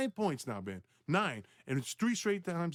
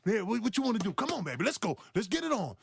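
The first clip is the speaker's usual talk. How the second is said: hyped-up challenge; 8 semitones higher than usual. Retold or imitated. Rookie hyping himself to guard Bird.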